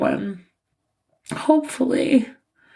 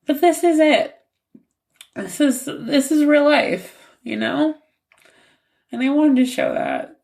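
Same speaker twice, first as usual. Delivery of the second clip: crying; 3 semitones higher than usual. Real, not acted. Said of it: "I'm probably gonna keep crying".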